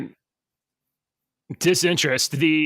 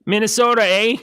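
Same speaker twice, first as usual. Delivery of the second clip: lightly put-on Minnesota accent, pitched up; mock Minnesotan; 5 semitones higher than usual. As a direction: play a folksy Minnesotan, a touch higher. Teasing Minnesotan talk after hearing his state.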